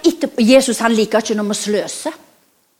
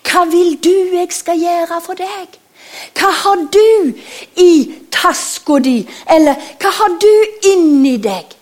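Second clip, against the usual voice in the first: pleading Jesus; 4 semitones higher, 5 dB louder than usual. Acted. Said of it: "sier han til oss".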